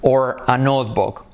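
very slow, spaced words; slow it right down for repeating; slow question demo; slow repeat model. Shown as a demonstration. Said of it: "Repite conmigo".

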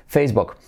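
"Facebook" with book like "bok". Shown as a demonstration. Teacher repeating the rule for students, U as O in "Facebook". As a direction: say "Facebook" with a short o-like vowel. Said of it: "U como O".

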